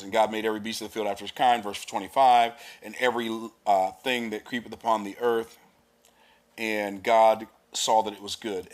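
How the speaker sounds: brisk, declaiming Bible reading; scripture reading. Acted. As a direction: read the verses out like from the pulpit. Reads scripture aloud.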